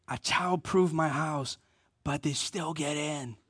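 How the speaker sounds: hushed and slow, as if confiding; mock whisper. Mom confiding to her own mom about her house, mock whisper. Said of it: "whispers to her".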